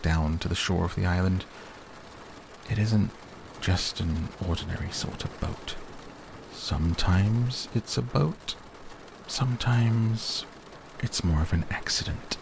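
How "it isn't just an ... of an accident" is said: hesitant bear. Acted. Pooh admitting oddities of his boat, hesitant.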